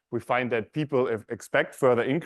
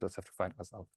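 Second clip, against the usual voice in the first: stage fright; 3 semitones lower, 10 dB quieter than usual. Real, not acted. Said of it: "Sorry, I'm a bit nervous".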